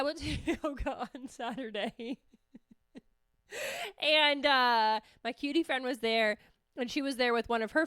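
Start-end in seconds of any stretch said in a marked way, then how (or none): 0.0-2.3 laughing. Real, not acted. Resuming the yoga story, laughing. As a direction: try to tell it while cracking up.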